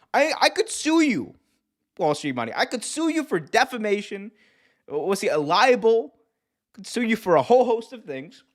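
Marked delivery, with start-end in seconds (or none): 0.1-1.4 high-pitched mock legal threat; comically affronted, voice shooting up; mock indignation. Mock threat to sue a viewer. 2.6-8.4 high-pitched mock legal threat; comically affronted, voice shooting up; mock indignation. Mock threat to sue a viewer.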